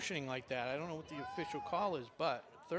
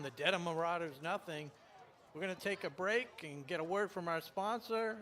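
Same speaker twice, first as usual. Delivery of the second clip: ordinary talk, nothing marked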